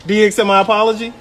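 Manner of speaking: insistent. Real, not acted. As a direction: push for the answer. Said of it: "repeated insistently".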